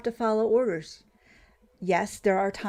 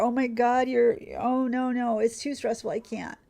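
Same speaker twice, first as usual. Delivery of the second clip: mock overwhelmed recruit; 4 semitones higher than usual.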